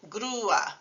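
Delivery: grua split as GROO-a; U A as two syllables. Shown as a demonstration. Teacher showing the word crane, two syllables. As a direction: stress the u in grua, separate from a. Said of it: "two syllables".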